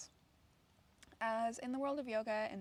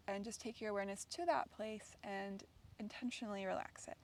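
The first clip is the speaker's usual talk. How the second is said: calm, unhurried guiding with long pauses; guided meditation. Real, not acted. Yoga teacher settles students onto the ground, guided meditation. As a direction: ease listeners gently into relaxation, leaving space between phrases.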